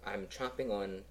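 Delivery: groggy and chewing; hungover, mouth half full. Real, not acted. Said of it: "'cause I'm quite hungover".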